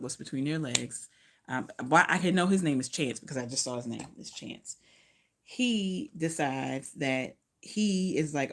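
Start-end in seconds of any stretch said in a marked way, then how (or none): 4.2-4.8 breathy whisper to herself; whispered aside. Real, not acted. Reviewer whispering the name she just found. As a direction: whisper it like a private discovery.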